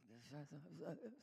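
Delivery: soft wordless gossipy murmur; hushed mock tittle-tattle; mimed gossip whispering. Shown as a demonstration. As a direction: imitate secretive whispering with a little hum. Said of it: "If it's gossip, it's like".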